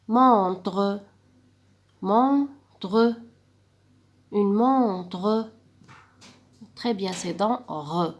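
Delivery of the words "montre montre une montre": "Montre" called clearly to the class; loud modelled word. Shown as a demonstration. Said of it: "la dernière image".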